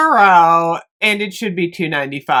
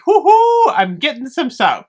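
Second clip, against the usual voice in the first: 1 overexcited whoop; 5 semitones higher than usual. Retold or imitated. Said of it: "It was my overexcitement".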